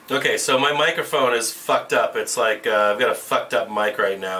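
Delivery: tinny voice through a bad mic; tin can sound. Real, not acted. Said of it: "it sounds like a tin can".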